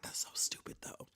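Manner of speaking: whispered aside. Retold or imitated. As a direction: breathe it out in a whisper. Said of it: "I'm like".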